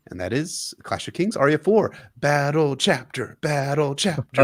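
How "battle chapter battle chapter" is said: drawn-out announcer voice. Shown as a demonstration. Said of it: "repeated title announcement".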